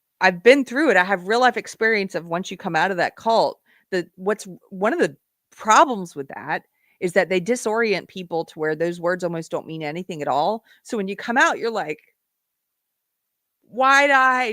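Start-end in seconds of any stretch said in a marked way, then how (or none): 10.8-14.5 moved, emotion audible, voice rising high. Describing what it is like coming out of the cult, getting emotional. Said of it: "I'm getting emotional".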